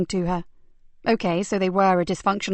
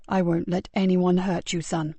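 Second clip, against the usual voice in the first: tender reassurance; 2 semitones lower than usual. Acted. Comforting frightened boy.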